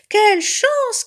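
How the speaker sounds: high, loud whoop of luck; delighted cry. A narrator's reading. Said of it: "cria l'autre". (cri de joie aigu et fort)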